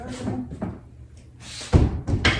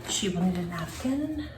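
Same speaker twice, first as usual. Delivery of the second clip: talking while crunching chips; words round a crunchy bite. Real, not acted. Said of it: "Sorry for the crunching".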